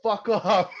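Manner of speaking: mock outro sign-off. Shown as a demonstration. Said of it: "that should be our outro".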